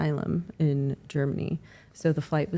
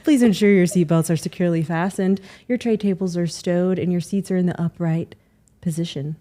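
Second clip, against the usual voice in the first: flight attendant; 4 dB louder than usual. Pretend. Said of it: "That's not right".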